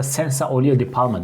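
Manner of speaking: senza olio di palma in a light Italian lilt; Italian accent. Shown as a demonstration. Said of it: "onların okunuşları farklı".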